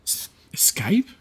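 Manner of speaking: breathy whispered question; whisper, puzzled, back to the player. Acted. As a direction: whisper the word back in disbelief. NPC whispers in disbelief.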